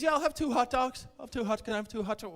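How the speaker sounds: customer voice. Retold or imitated. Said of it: "He says".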